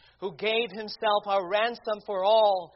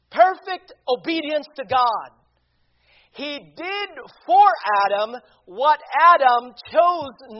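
loud, rising preacher's proclamation; fervent pulpit climax; preaching at full force; 4 semitones higher, 8 dB louder than usual. Acted.

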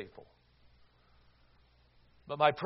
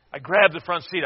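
ordinary talk

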